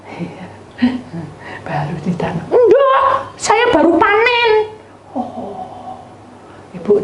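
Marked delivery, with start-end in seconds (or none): 2.5-4.5 voiced farmer. Farmer answers the mother.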